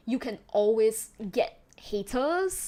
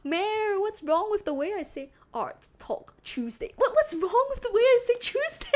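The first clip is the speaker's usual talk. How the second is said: high-pitched, incredulous protest, building louder; playful indignation; 9 semitones higher, 5 dB louder than usual. Real, not acted. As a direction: protest in laughing disbelief, climbing high. Mock indignant over teased accent.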